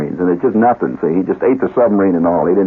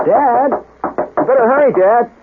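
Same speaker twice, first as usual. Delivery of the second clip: put-on high, drawn-out child voice calling through the door; urgent kid; much slower than usual. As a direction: imitate a pestering kid calling Dad. Kid knocking, calls through the door.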